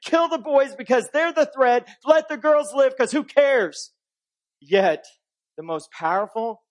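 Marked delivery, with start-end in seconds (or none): 0.0-3.9 acted Pharaoh, higher-pitched and dismissive; contemptuous dismissal. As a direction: voice a ruler's offhand contempt. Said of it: "Pharaoh's utter contempt and dismissal".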